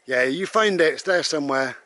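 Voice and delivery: high, loud cheering on; encouraging the dog. Real, not acted. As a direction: urge the dog to keep searching.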